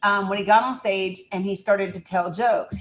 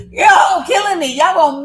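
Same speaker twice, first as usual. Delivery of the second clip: laughing hard, higher and louder; real laughter; 9 semitones higher, 8 dB louder than usual. Real, not acted. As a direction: crack up at the chat. Laughing at chat guessing names.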